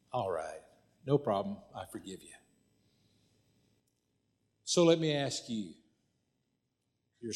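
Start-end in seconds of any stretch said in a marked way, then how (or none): 0.1-2.3 low, soft, offhand acceptance; understated forgiveness. Retold or imitated. Pastor forgiving the woman who apologized, understated. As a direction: drop low and let it fade away quietly.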